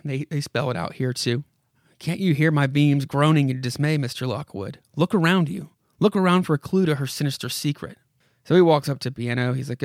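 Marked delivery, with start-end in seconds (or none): 2.0-8.0 dramatic comic-book narrator addressing a character; story narration. Acted. Narrator urges Mister Lockwood to look around, dramatic narration. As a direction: read it aloud with measured urgency.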